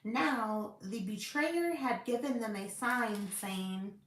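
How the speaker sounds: measured, emphatic Bible read-aloud; scripture reading. Acted. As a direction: read the verses out with firm stresses.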